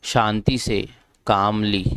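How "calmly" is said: "कामली" with no L heard after the long "aa"; silent L. Shown as a demonstration. Teacher shows learners the word for शांति से, "कामली" with silent L. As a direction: say "कामली" as kaam-lee, first L silent. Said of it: "इसमें जो एल है वो silent है".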